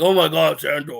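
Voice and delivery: loud, high gushing excitement; fake enthusiasm. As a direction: gush like a hyped fan. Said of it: "fake enthusiasm".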